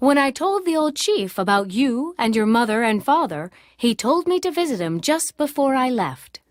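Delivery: mild storyteller uncle; lightly voiced uncle. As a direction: tell it like a well-travelled uncle.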